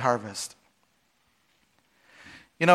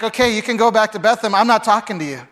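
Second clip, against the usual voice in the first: mock huffy, higher and louder; huffy Naomi; 5 semitones higher, 4 dB louder than usual. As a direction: play Naomi sulking, half-serious. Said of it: "And Naomi's like".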